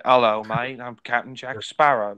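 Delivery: lightly imitated Australian-tinged pirate; a hint of mock Australian; Australian-slipping British accent. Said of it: "sometimes it sounds Australian".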